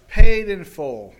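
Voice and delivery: loud and slow, each word stamped; emphatic declaration. Acted. Master to servant, loud and slow pronouncement. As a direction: proclaim the debt cancelled.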